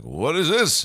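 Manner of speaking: high, loud what is this; bewildered by the delivery; baffled teacher. Retold or imitated. Teacher confused by paper delivery.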